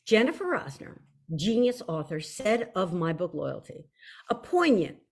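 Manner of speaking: composed, mock-classy book-blurb reading; trying to sound classy. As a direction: read it as if you were classy. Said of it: "try to sound classy".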